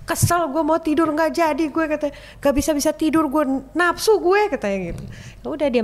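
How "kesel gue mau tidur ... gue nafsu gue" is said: put-on older sister grumbling at being woken; scolding sister. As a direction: tell her off, fed up.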